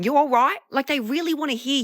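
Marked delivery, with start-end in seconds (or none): 0.0-0.6 mock British greeting, rising; imitating British. Mimicking London locals greeting her, mock British. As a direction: ask it breezily the British way. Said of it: "Here, they just go".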